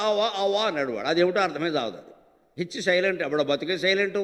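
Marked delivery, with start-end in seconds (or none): 0.1-0.6 mocking "ఆవా", the h dropped from hour; imitating English "ఆవా" with silent h; mock English pronunciation. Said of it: "ఈ హోరనే పలకలేక".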